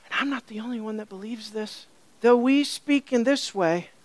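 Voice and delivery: gently voiced scripture quote; gentle. Preacher voicing the author speaking to his audience, gently. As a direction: say it softly, without pressure. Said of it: "he's gently, gently speaking to his audience".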